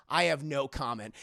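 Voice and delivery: lightly voiced deadpan interviewee; Bruce Wayne. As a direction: say it low to the camera. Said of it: "looks at the camera and says".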